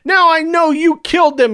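high, loud accusing shout. A narrator's reading. Clovis pointing at Superior, shouting the accusation. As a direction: point and yell it. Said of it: "he shouted".

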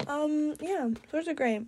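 talking while chewing gum; words round a wad of gum. Real, not acted. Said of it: "I was chewing gum for most of that".

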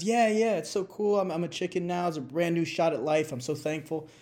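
bubbling over with gratitude; eager new chicken. Retold or imitated. Reborn father telling the rooster, mock excited.

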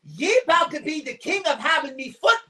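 slipping into a light pirate voice by accident; talking like a pirate. Acted. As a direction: growl it like a mock pirate threat. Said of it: "now I'm talking like a pirate".

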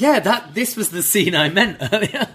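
high, giggling through the words; laughing. Real, not acted. Co-host laughing about the crying scene, giggling. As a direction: laugh it out in delight.

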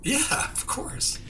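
hushed, slow conspiratorial whisper. Pretend. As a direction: whisper it like sharing a secret. Playful reply to a shared secret.

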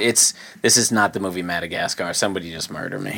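miserable polar bear. Acted. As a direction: voice a listless bear who has given up. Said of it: "He's just laying there. He's like".

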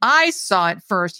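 taunting. Acted. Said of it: "taunting me now".

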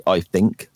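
"think" pronounced with F for TH, as "fink". Shown as a demonstration. Guest admitting his speech issue, "think" said as "fink". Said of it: "mine comes out like an F".

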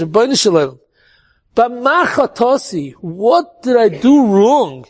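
a touch of weeping, slowing on the plea; tearful plea. Retold or imitated. Rabbi asking Hashem why he suffers, mild tearful plea. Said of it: "That's what he was crying".

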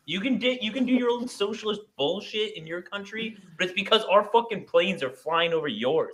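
hammed-up superpower bully dressing down an ally; American empire. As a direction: lord it over a British critic. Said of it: "I turn, like, American empire".

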